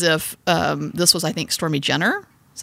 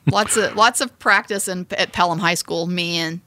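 stoner voice. Pretend. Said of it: "Do you like my stoner voice?".

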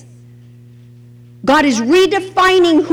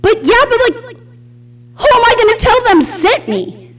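higher, hesitant pleading Moses; candid Moses; 7 semitones higher than usual. Retold or imitated. Moses candidly objecting to God, higher and unsure. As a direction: stammer out the objection. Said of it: "he says to God in, in such candor".

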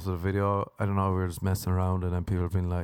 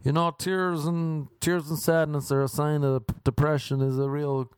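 mock earnest scolder, pitched higher; earnest objector; 5 semitones higher than usual. Objecting to a kale joke, mock earnest. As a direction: imitate someone solemnly taking offence. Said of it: "someone else being like".

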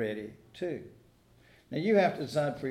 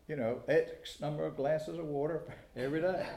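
amused; 4 dB quieter than usual. Real, not acted. Amused at the hydration fad.

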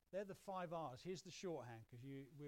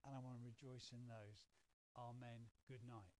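bedtime prayer; 4 dB quieter than usual. Shown as a demonstration. Believer thanking God at bedtime, quiet prayer. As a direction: pray quietly and simply, winding down to sleep.

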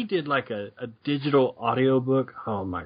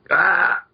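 short, raised choking "Ah!"; mock choking cry; 5 semitones higher than usual. Batman being choked by an alien, mock choking cry. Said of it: "he's choking to death here".

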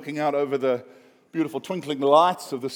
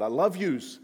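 put-on New York Long Island accent; 3 semitones higher than usual. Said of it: "It sounded a little bit like New York, Long Island".

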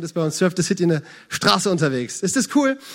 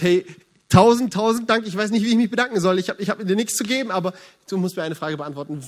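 overjoyed thanks; 2 semitones higher, 4 dB louder than usual. Acted. Grateful stranguard in story.

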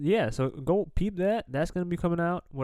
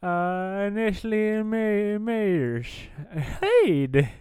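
put-on Irish accent; 3 semitones higher than usual. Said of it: "where we talk in accents".

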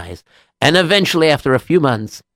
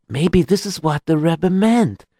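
slow, slightly higher musing; dawning realization; 4 semitones higher, slower than usual. Acted. Rabbi ponders his master's meaning, dawning realization. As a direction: let the idea dawn slowly.

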